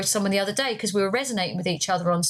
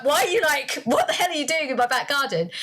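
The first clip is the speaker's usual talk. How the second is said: mildly raised, imitated challenge; mock indignation; 2 semitones higher than usual. Woman confronting a stranger in her garden, mock indignant. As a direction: act out an affronted demand.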